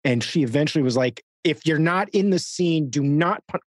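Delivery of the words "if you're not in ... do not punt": slow, slightly raised telling-off; retold scolding. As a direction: imitate a producer laying down a rule. Retold scolding by line producer.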